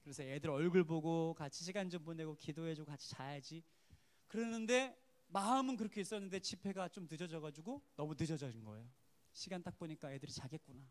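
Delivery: ordinary talk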